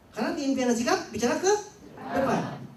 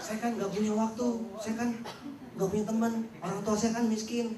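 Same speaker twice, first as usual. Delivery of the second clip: mock self-pity; slower than usual. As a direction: whine out every excuse. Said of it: "Bicaranya cuman".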